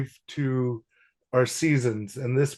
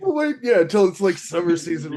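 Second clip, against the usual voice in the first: playful high tease; 6 semitones higher, 4 dB louder than usual. Real, not acted. Teasing about shirtless.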